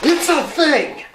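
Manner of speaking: high, loud insistent yell. Acted. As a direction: shout it, losing your temper. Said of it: "dude, calm down!".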